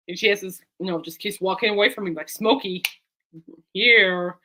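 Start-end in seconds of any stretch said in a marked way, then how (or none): 2.3-4.4 firm retold command, louder on the last word; name, pause, then a firm order; calling the dog. Owner to dog walking away, commanding.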